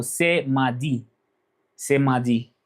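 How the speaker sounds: "c'est mardi" as seh mah-dee; French pronunciation. Shown as a demonstration. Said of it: "so to say today is Monday".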